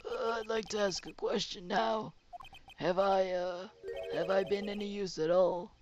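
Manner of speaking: put-on quavering old man. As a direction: play a timid old man. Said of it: "doing the voice of two old men".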